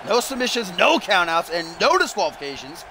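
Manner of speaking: lively wrestling commentator; play-by-play. Pretend. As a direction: call the match as it unfolds.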